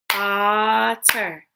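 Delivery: otter in two separate beats; otter split into syllables. Shown as a demonstration. Teacher clapping along with pupils, otter split in two. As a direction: hold the opening of otter, then finish. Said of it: "Break words into parts".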